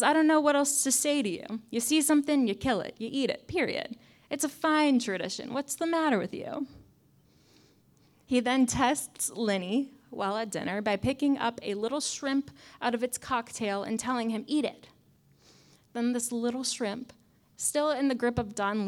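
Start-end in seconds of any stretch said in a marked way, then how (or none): 0.0-6.7 higher, louder mock mafia don; mob boss voice. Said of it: "I told myself I wasn't gonna do the voice". 14.5-14.9 mob boss order. Retold or imitated. Don Lino ordering son.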